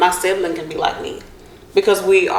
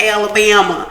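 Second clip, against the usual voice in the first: country Alabama. Retold or imitated. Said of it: "She's like".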